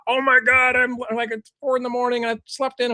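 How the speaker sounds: a hint of a frazzled fan; frazzled viewer. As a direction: imitate a sleepy viewer griping. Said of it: "Foxy was like".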